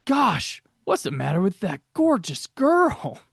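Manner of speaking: puzzled eager sidekick, a bit hammed-up; Robin catchphrase. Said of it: "that leads us into Robinisms".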